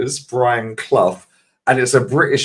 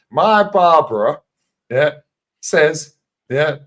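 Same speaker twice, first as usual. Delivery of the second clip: put-on Brian Clough accent; 3 semitones higher than usual. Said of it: "nails his fucking accent".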